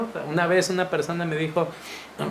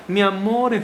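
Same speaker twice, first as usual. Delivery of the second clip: tender; 3 semitones higher than usual. Shown as a demonstration. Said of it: "tienes que agarrarla".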